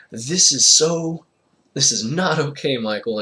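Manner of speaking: mock scolding through giggles; giggle yelling. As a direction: yell to drown out a giggle. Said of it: "giggle yelling".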